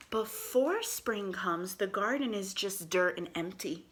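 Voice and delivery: slow storybook reading aloud; reading to children. Acted. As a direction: read it slowly to little kids.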